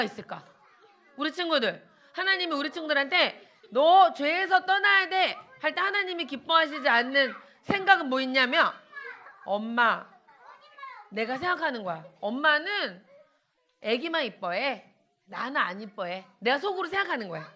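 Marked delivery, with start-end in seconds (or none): 3.7-5.4 higher, slow firm urging; firm admonition. Acted. God's message voiced to children. 9.4-16.2 put-on softer, lower childish sulk; mock sulky child. Child's sulky inner thought voiced.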